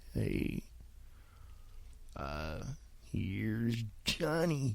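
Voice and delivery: deep, very hushed, low-key, barely above a whisper. On your podcast, having just noticed you sounded like him, do a Jack Nicholson impression. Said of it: "I sounded like Jack Nicholson".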